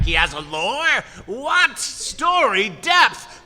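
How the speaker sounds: loud, high, incredulous outburst; mock astonishment. Viewer stunned the villain has depth, mock astonishment. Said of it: "but it's like".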